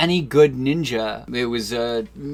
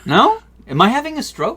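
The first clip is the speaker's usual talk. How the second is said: mock alarm; 11 semitones higher, 5 dB louder than usual. Mock alarm about smell.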